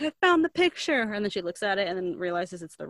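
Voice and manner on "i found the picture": high, louder retold exclamation; mock excited discovery. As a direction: announce the find, imitating her excitement. Acted triumph at finding picture.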